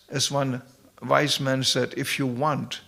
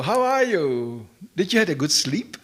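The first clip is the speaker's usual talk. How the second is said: mimicking a Dane; 4 semitones higher, 3 dB louder than usual. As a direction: lightly imitate a drowsy Danish friend. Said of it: "people go".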